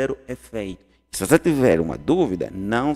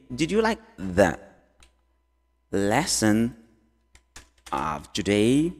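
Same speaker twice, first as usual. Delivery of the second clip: slow, long pauses around "lesson"; word by word; 2 semitones lower, much slower than usual. Shown as a demonstration. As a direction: stretch out "of today", rising at the end. Teacher breaks question up slowly. (devagar, com pausas longas entre as partes)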